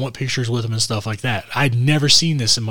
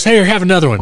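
laughing tease; 8 semitones higher, 8 dB louder, faster than usual. Retold or imitated. Teasing while handing pictures.

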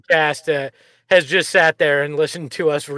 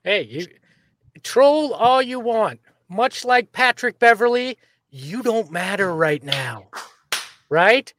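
trash talk to the trolls; taunting the trolls with swagger; mocking send-off to the haters; attitude. Real, not acted. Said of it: "That's, that's attitude".

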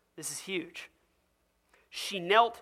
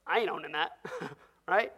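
laughing; faster than usual. Acted. Crowd member dodging, laughing.

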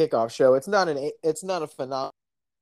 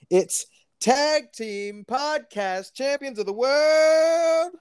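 ringmaster; 6 semitones higher than usual. Pretend. Announces the podcast like ring announcer.

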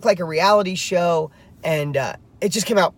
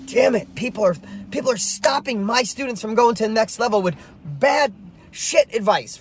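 fired-up rant; 5 semitones higher than usual. Retold or imitated. Fired up at the bad advice holding his students back, shouting. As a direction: vent at people who give bad advice. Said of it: "I get all fired up".

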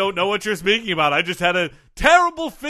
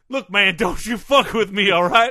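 redneck outburst; 4 semitones higher than usual. Acted. Guest snapping back to his hillbilly self. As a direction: drop the posh act and threaten him like a redneck. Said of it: "you reverted to your natural self there for a second".

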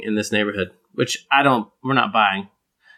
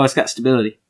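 American stability; faster than usual. Shown as a demonstration. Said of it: "when I'm back home, I'd have been like".

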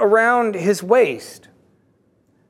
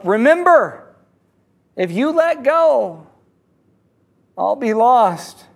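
yelling up; 3 semitones higher, slower than usual. Acted. Dangling man calling to his rescuer, mock yell. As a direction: call up with drawn-out words, not full force. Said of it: "The man yells up".

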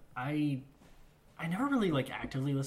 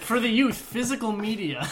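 mock echo; 8 semitones higher, 7 dB louder than usual. Mocking echo of explanation.

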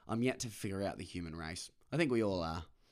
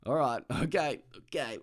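smiling back; 5 semitones higher, 6 dB louder than usual. Retold or imitated. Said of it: "I just kinda smile back at him".

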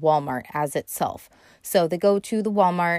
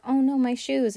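light, higher sweet little "oh no"; sweetly dismayed at her lost shoes, pitched up; 7 semitones higher than usual. Retold or imitated. Novalee to herself over her lost shoes, sweetly dismayed. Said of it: "she's really sweet about it".

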